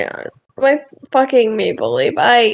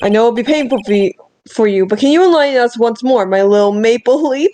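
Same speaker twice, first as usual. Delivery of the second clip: put-on Canadian accent. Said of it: "Canadians don't talk like this".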